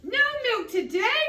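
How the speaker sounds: high, loud disbelieving cry; cried out. A narrator's reading. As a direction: cry it out in shock. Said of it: "cried Farmer Brown".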